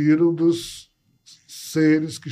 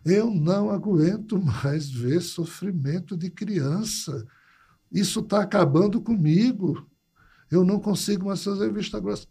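Glauber, despairing; 3 semitones higher than usual. Retold or imitated. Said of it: "Ele disse".

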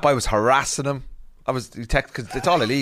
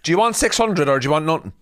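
raised, pressing haggler's voice; mock ultimatum; 6 semitones higher, 4 dB louder, faster than usual. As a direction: press the seller hard for an answer, play-acting. Acted haggle, giving an ultimatum.

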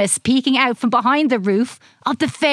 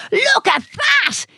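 excited; 7 semitones higher, slower than usual. A narrator's reading. Excited child discovery.

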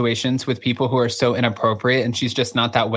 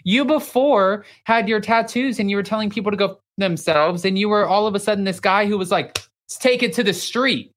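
mock the son's sudden cowboy act; mock disbelief; 6 semitones higher than usual. Ranting at cowboy transformation.

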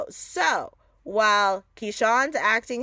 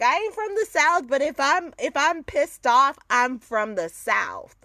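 mildly riled Southern accent, starting high; pissed-off Southern accent; 5 semitones higher, 3 dB louder than usual. Shown as a demonstration. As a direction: let the Southern accent come out as if ticked off. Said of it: "that's what all my Ebonics comes out".

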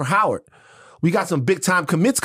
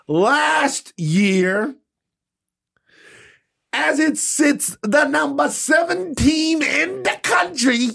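high, slow, teary whimper; blubbering like a baby; mock crying; 8 semitones higher, much slower than usual. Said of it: "I'm a baby".

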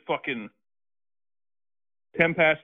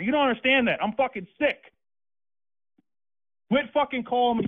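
raised, higher-pitched threatening rant; furious man threatening the prank caller, ranting; angry threats; 5 semitones higher than usual. Real, not acted. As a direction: menace him inch by inch.

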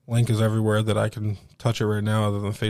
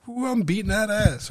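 high, sing-song mock glee; imitated gleeful gloating; 12 semitones higher than usual. Kid dancing over his lead, mock gloating. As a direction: crow like a kid who is winning. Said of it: "happy as fuck. He's up dancing".

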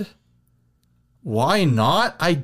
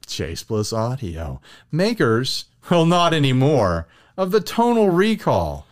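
radio ad voice. Acted. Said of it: "How is my radio advertisement voice".

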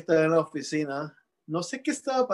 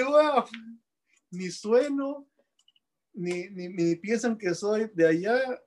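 higher-pitched, mildly amazed reaction; astonished self-quote; 5 semitones higher, slower than usual. Retold or imitated. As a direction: replay your own disbelief, pitched up. Recounts his astonished reaction.

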